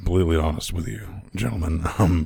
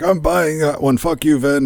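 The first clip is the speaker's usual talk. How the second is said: mock defiance; 7 semitones higher, 3 dB louder than usual. Retold defiant reply from friend.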